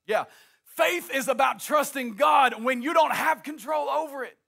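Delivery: rising, driving sermon cadence; preaching at full force. Acted. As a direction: preach it out over the organ. Preaching with music underneath.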